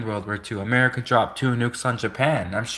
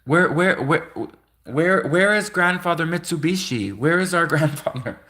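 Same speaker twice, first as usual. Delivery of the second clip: mock searching grandchild; 6 semitones higher than usual. Voicing searching Japanese grandchild.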